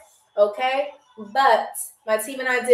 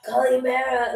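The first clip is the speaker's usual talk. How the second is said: lightly put-on dude voice; man voice. Shown as a demonstration. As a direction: have a go at a man's greeting. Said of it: "like, a man voice".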